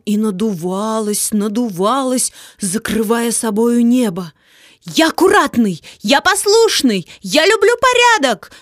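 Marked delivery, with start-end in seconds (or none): 4.9-8.5 put-on loud, rising children's cries; shouting out. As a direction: call out each promise. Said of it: "начали выкрикивать дети".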